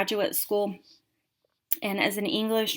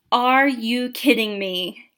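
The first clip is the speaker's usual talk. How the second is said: incredulous instructor; 6 dB louder, slower than usual. Retold or imitated. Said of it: "And she said".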